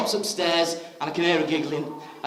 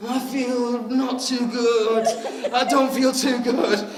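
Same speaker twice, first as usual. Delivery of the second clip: mock sick moan; 5 semitones higher, much slower than usual.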